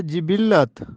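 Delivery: جبلت said jibillat, 'i' first; درست تلفظ. Shown as a demonstration. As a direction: say جبلت as ji-BIL-lat. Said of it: "درست تلفظ ہے". (جبلت جیم کے نیچے زیر، جِبِلّت)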